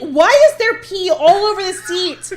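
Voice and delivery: loud outrage breaking into laughter; passive aggressive. Retold or imitated. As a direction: complain loudly while laughing. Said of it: "I will be like".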